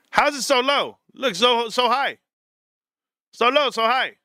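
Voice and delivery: high-pitched mock Asian accent; exaggerated made-up Asian accent. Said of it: "that's my own made-up Asian accent".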